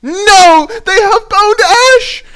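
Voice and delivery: very high, loud crying wail; anguished cry. Real, not acted. Player reacting to the opponent's removal spell, high loud anguished wail. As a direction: howl in dismay at the bad news.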